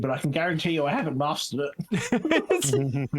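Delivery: chewing while talking; words round a bite of food; mouth full. Real, not acted. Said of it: "Are you talking with your mouth full".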